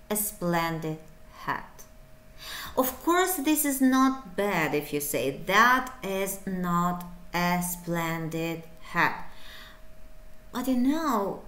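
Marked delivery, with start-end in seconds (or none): 5.4-9.3 dull full form. Shown as a demonstration. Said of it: "you will be dull".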